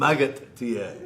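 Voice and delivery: Magut T A, with a hard T closing Magut; Russian-accent Magnum. Shown as a demonstration. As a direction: say Magut T A, ending the first word on a T. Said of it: "Put a T on the end of that".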